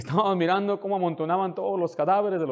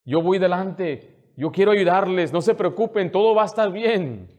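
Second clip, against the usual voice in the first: raised, emphatic preacher's voice; impassioned preaching; 5 semitones higher, 7 dB louder than usual. Real, not acted. Pastor vowing to his flock that all will be well, impassioned preaching. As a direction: preach it with full conviction.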